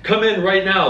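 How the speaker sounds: high, thrilled jeweler friend; excited jeweler. Retold or imitated. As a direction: burst with excitement. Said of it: "He's like".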